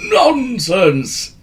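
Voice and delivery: high, loud "Nonsense"; sharp retort. A narrator's reading. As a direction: brush it off with a snap. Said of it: "retorted the wizard".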